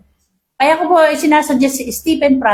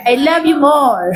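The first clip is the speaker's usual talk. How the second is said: laughing. Real, not acted. Playful reply to congregation.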